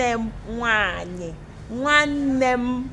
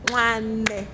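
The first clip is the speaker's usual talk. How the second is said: "Nwanne" in separate, even beats; syllables clapped out. Shown as a demonstration. Teacher counts syllables with pupils, beat by beat. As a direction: clap out each syllable of "Nwanne". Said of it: "Can we clap it out?".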